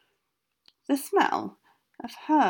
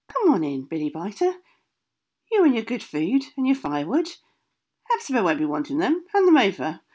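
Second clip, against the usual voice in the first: put-on old witch voice; 3 dB louder than usual. Witch Greenaway greets Billy.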